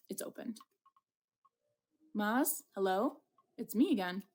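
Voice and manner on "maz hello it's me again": calling out. Acted. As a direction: call out to someone inside. Calling into the hut.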